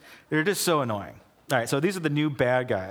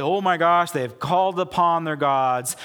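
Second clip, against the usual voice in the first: louder, panicked alarm; loud alarmed cry; 3 semitones higher, 5 dB louder than usual. Retold or imitated. Philistines warning each other, louder panicked alarm. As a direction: sound the alarm to the troops. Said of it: "But they say".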